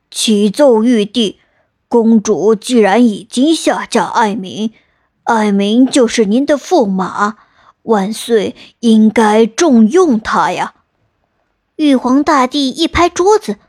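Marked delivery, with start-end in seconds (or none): 0.1-10.7 respectful. Acted. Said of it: "恭恭敬敬地说". (恭恭敬敬、放慢的禀报)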